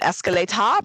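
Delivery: "escalator" in mock British, ending in "-ah" with no R. Shown as a demonstration. Guessing how the English say it, "escalator" in a British accent without the R. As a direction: fake British "escalator", final R dropped. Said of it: "No R, right?".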